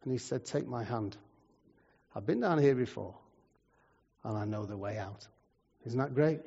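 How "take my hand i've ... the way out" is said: soft, low, quiet promise; gentle reassurance. Acted. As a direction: offer rescue calmly, voice sinking. Jesus reassures one in hole.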